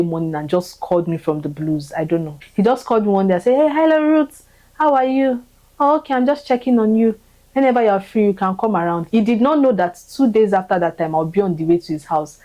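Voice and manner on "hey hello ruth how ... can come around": high, cheery voice for Bro Lekan's friendly check-in call; mock phone greeting, pitched up and chirpy; imitating Bro Lekan. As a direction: lightly act out his bright hello on the phone.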